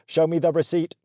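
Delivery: stiff imitation of a strict boss; slightly robotic mock demand; attempted Greek accent, robotic. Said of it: "like a freaking robot".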